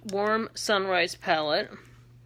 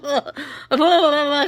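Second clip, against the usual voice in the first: loud babbling after a slip; tongue-tied babble; 6 semitones higher, 7 dB louder than usual. Real, not acted. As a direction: trip over the words into loud babble. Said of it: "Can I talk?".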